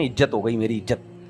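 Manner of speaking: both عزت said as "ijjat", with j for z; colloquial "ijjat" pronunciation. Retold or imitated. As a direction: mimic popular speech, عزت becoming "ijjat". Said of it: "کہتے ہیں نا". (عوامی نقل، عزت کو "اِجّت" بولتے ہوئے)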